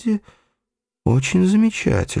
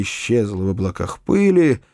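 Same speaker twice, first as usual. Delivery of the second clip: plain reading voice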